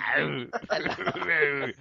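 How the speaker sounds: high sing-song doorstep hello; mock charity collector. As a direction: call out sweetly like a collector at the door. Acting a charity collector at door.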